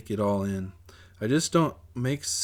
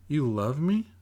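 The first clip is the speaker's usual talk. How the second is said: put-on little girl; 6 semitones higher than usual. Little sister voiced, high.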